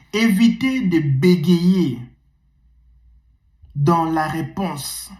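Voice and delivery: each word spaced out and drawn out slowly; slow dictation. Shown as a demonstration. Coach dictating rule one to students, slowly. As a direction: dictate it slowly so they can write it down. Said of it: "On va écrire".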